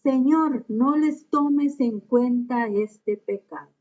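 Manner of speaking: a lightly acted cry to the Lord; cried out loud. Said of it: "gritó con voz fuerte".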